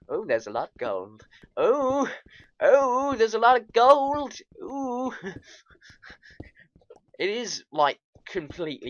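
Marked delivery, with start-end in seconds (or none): 1.6-5.1 high, loud excited oohing; thrilled cry at striking it rich. Real, not acted. Excited at finding lots of gold.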